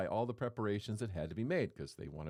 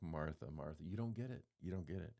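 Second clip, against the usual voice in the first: softer, gently exasperated Martha, Martha; head-shaking sigh; 5 semitones lower, 6 dB quieter than usual. Retold or imitated. Jesus gently chiding Martha, softer and head-shaking. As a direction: sigh it out like a patient teacher shaking his head. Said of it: "shaking his head or maybe going like".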